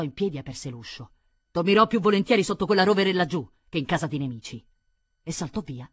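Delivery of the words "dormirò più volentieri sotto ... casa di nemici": raised, higher voice, storming out; loud, offended exit line; indignant parting shot. Acted. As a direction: throw it loudly over your shoulder as you leave. Viscount storms out of house.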